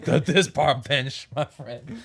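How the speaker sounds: a hint of a southern accent. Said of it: "developing a southern accent right now".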